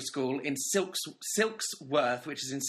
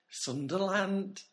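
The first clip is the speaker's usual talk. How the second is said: slow, higher Geordie warm-up; attempted Geordie accent; 5 semitones higher, much slower than usual. Shown as a demonstration. Podcaster practising before Ben's review, attempted Geordie accent. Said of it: "In a Geordie accent".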